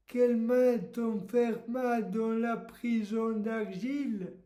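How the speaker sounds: measured, understated poetry reading; poem recitation. Acted. Host reading Lamartine extracts for a title quiz, poem recitation. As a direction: recite the verse with spaces between phrases.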